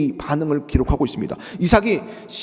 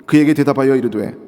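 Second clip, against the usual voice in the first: scripture reading; 3 dB louder than usual. Acted. Reads scripture aloud.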